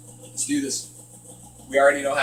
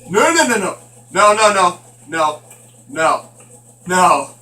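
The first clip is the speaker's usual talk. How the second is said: panicked no; 4 dB louder than usual. Real, not acted. Gamer yelps no at a scare, panicked. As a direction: yelp no in fright at the jump scare.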